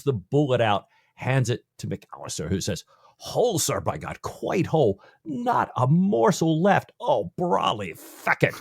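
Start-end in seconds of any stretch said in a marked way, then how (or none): 3.2-8.5 attempted Scottish accent. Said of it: "I wish I could do a Scottish accent".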